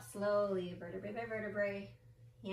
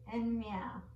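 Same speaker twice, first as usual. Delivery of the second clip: cat meow. Shown as a demonstration. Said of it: "One more".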